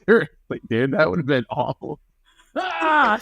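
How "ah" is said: high "ah" as if struck; play-acted scream from a blow to the head; mock cry of pain. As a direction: let out a high pretend yelp. Reacting to the wine bottle blow.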